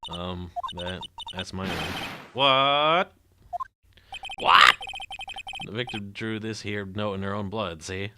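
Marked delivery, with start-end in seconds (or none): 2.3-3.1 high, rising disbelief; a startled, climbing What?; shocked question. Acted. Shocked at hearing her name. 4.4-4.8 louder, falling What? shouted down; loud flat What. Acted. Shocked at hearing her name. 5.7-8.1 put-on old gangster detective. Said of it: "why does he talk like that".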